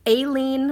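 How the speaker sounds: "Aileen" listed as another wrong version; mispronounced name. Shown as a demonstration. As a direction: say "Aileen" as ay-LEEN. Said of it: "I get called once in a while".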